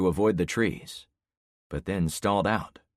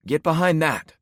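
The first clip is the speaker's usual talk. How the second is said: urgent shout; 10 semitones higher, 7 dB louder than usual. Acted. Shouting order as debris falls.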